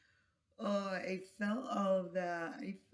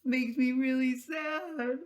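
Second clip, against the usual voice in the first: crying apology; 5 semitones higher, 8 dB louder than usual. Real, not acted. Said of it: "I didn't mean to cry and stuff".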